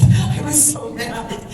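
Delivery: drawn-out, high burst; worked up, voice rising high. Real, not acted. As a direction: overcome while recalling anger. Moved recalling her anger.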